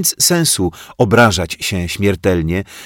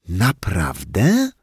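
slow, cool, pointed question; drawn-out sneer; 2 semitones higher, much slower than usual. A narrator's reading. The teacher coolly needles the puppet, slowly drawing the word out. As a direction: let each syllable drip. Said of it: "wycedziła pani Miłka".

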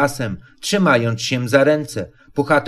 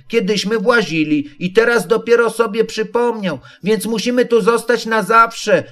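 wysoki, dziecięcy głos Maleństwa; Maleństwo; 7 semitones higher than usual. A narrator's reading. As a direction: podekscytowane małe kangurzątko wysoko. Roo speaks in the story. (maleństwo woła z drzewa wysokim, dziecięcym głosem)

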